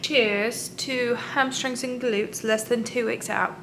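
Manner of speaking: put-on slow, soft British accent. Toasting two weeks out, in a British accent. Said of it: "I did a British accent".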